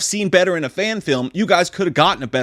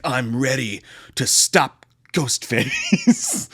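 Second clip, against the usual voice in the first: slow, hammed-up declaration; overdramatic mock heroine; 2 semitones lower, much slower than usual. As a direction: drag it out like a melodramatic heroine. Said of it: "I'm being overdramatic about it".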